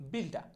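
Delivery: বিলডা with open "daa" ending, no r; corrected pronunciation. Shown as a demonstration. Teacher drilling builder with learners, বিলডা ending in open আ. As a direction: drop the r at the end of বিলডা. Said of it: "আর এর উচ্চারণটা".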